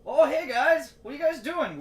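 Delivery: high, loud mocking voice; mocking friend voice. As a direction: squeak it out like the clueless friend. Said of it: "he's like".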